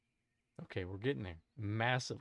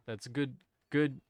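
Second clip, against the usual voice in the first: game show host. Pretend. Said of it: "sitting here in the Family Feud".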